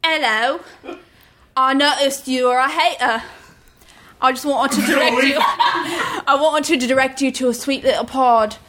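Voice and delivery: mock Welsh accent. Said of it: "No one speaks like that".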